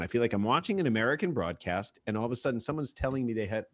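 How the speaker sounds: ordinary delivery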